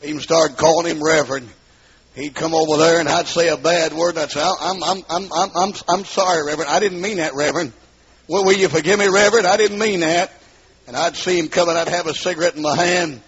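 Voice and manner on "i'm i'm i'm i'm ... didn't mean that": mock stammering apology, slightly raised pitch; flustered apology. Sinner apologizing to the Reverend for a bad word, flustered apology. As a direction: stumble into a pleading, repeated sorry.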